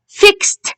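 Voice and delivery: "Fixed" high, ending in a released t; teacher's high, careful "Fixed", final t audible; final t sound. Shown as a demonstration. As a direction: say "Fixed" with ed as a crisp t. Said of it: "The t sound".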